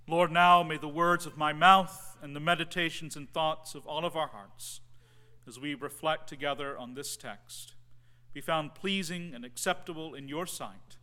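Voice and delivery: prayer. Acted. Pastor opens with a prayer.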